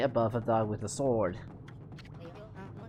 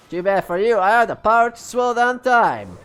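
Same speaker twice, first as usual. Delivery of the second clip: loud boast; 6 semitones higher, 9 dB louder than usual. Pretend. Boasting gatekeeper voice.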